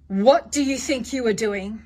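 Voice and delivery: measured parental telling-off; stern parent. Shown as a demonstration. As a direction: confront the child without losing your cool. Parent demonstrating a confrontation.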